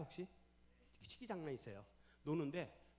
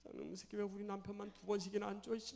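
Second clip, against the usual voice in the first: higher-pitched, weepy mock cursing; acted tearful indignation; 6 semitones higher than usual. Wife driving, defending husband, tearful acted cursing. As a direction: curse for your husband through acted tears. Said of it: "아내가 운전하다가 눈물이 나가지고".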